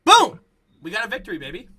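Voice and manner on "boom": high, explosive yell; loud high-pitched whoop; celebratory shout. Real, not acted. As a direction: burst in with a booming victory cry. Celebrating the team's victory.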